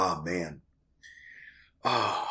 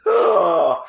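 dying mule groan; 5 semitones higher, 4 dB louder than usual. Real, not acted. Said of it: "I sound like a dying mule".

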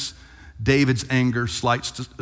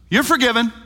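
declaring forgiveness; 10 semitones higher, 5 dB louder than usual. Retold or imitated. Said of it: "Nathan goes".

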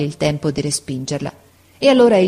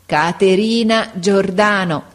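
slow, heavy name call; lightly voiced deaf girl, slow and heavy; a hint of a big voice calling the name; big clumsy voice; 3 semitones higher, 3 dB louder, slower than usual. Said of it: "dicendo con la sua grossa voce".

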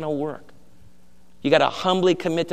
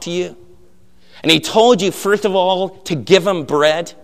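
grand inquisitor scolding; 4 semitones higher, 4 dB louder than usual. Retold or imitated. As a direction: start hushed, then rise into furious accusation. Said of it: "The conversation goes kinda like this".

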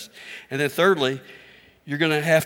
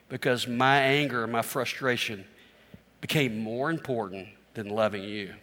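sincere apology; 3 semitones lower than usual. Retold or imitated. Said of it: "pull away and say".

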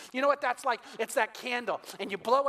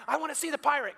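put-on eager toddler; 5 semitones higher, faster than usual.

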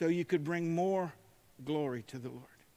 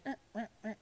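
shears noise; 4 semitones higher, 8 dB quieter, much faster than usual. Retold or imitated. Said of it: "it made the little noise".

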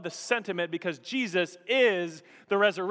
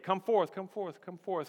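echoing call. Retold or imitated. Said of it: "as those words echo".

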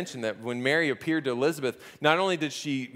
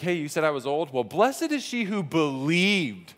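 pointed little dig. Retold or imitated. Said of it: "Elizabeth is giving a little dig".

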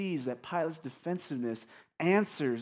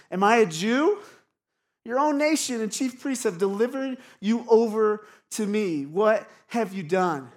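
defensive scripture quote, pitched up and a bit louder; defensive, sarcastic; 4 semitones higher, 4 dB louder than usual. Acted. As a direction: throw the question back with a touch of scorn. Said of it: "He's defensive. He's sarcastic. He's mean".

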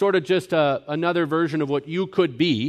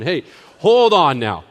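louder, higher, pushing back hard; loud retort; 5 semitones higher, 7 dB louder than usual. Retold or imitated. Preacher loudly rebuking a relative's wrong idea, raised voice. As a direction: stop him short, raising your voice. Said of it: "I'm like".

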